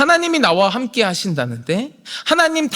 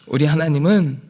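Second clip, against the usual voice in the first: ordinary talk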